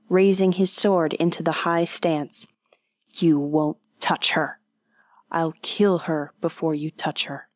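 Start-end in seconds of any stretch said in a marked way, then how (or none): 3.1-7.5 tense whisper. Acted. Kanishi defies the oni.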